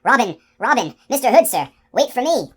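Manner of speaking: high, loud pleading calls after him; hoarse calling. A narrator's reading. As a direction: call out desperately to the departing archers. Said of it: "calling hoarsely".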